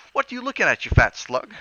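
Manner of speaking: high, loud Cockney taunt; Cockney lad shouting at a creep; Cockney jeer. Acted. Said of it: "I up and says".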